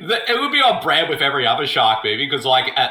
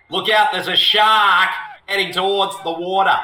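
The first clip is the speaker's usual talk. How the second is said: put-on Boston accent; 3 semitones higher than usual. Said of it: "if this was set in Boston, they'd be like".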